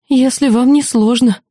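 high timid squeak. Acted. Frightened student squeaking a polite answer to the demon, high squeak. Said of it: "пискнула я".

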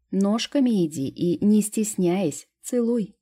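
bossy order, slowing on не стесняясь; fairy ordering the girl again; commanding. A narrator's reading. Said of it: "тем же тоном приказала сестра".

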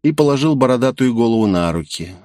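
ordinary delivery

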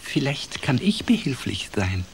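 high, meek little character voice; thin little voice. A narrator's reading. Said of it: "ein dünnes Stimmchen vernehmen".

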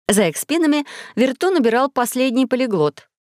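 ordinary delivery, nothing marked

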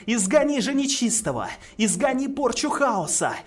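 prayer building from hushed to shouting; fervent prayer. Acted. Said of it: "поддержали её мантру изгнания".

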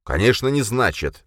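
snapping back, pitch up; flaring up. A narrator's reading. Khranka flares up at Jurgen, heated. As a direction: flare up at once. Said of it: "взвился Хранка".

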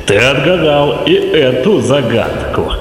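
sinister villain voice, lightly put on; a hint of a gloating villain; dark lord. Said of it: "зловещий голос".

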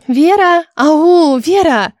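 loud, high calling out. Acted. Elsa calling loudly to daydreaming Vera, a loud shout. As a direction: call her back from her thoughts. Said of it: "Зачем кричать?".

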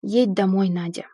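understated firm command; serious order. A narrator's reading. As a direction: order it gravely, dropping on the name. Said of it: "серьёзно приказал".

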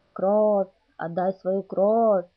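slow, drawn-out hungry howl; hungry vampire howl. Acted. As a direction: howl for blood like a starving fledgling. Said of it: "завыл тем временем младший вампир". (протяжный голодный вой)

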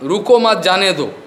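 रुको मत run together, then जाने दो; misplaced pause. Shown as a demonstration. Stammering master calling to the guard, रुको मत joined as one. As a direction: join मत onto रुको, letting जाने दो fall away. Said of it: "उच्चारण का इधर उधर हो गया".

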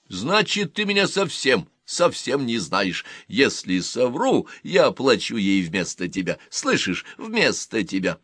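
lightly voiced girl, mildly indignant; a hint of a wronged young woman; indignant Рутта.

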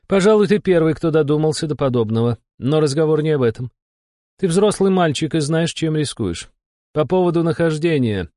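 high, brisk-tempered female character voice; irritable demon curator. A narrator's reading.

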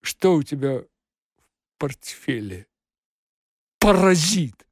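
shrill angry cat shout; piercing shout. Acted. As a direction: scream it at him piercingly. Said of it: "пронзительно прокричал".

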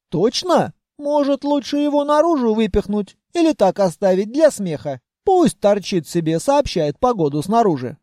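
a guard proud it caught an intruder; smug treasury voice. Acted. Treasury telling Vanya it trapped the spy, pleased.

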